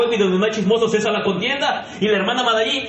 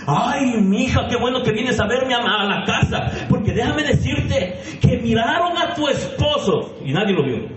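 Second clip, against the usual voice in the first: gossiping aunt. Retold or imitated. Gossiping aunt voiced in sermon.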